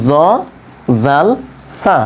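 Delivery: জ, জাল, সা with tongue tip on upper teeth edge; touch tongue to upper tooth tips for জ, জাল, সা; separated জ, জাল, সা as dental lisped sounds; articulation demo. Shown as a demonstration. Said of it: "জিহ্বার আগা ওপরের দাঁতের আগার সঙ্গে লাগিয়ে দিব".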